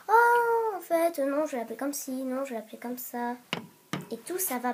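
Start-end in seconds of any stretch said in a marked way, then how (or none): 0.1-3.3 gushing oh, then dithering; fickle buyer. Pretend. Mocking a fickle hamster buyer, a hint of gushing dithering. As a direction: play an indecisive buyer who keeps changing her mind. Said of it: "si vous faites".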